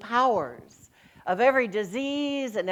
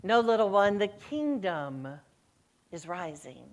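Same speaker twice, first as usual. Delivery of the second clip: gentle Jesus; 3 semitones lower, 3 dB quieter than usual. Acted. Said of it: "And Jesus says".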